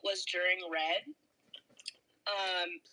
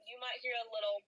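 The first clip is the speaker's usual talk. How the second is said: mouth full; 5 dB quieter than usual. Real, not acted. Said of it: "cheese puff action going on".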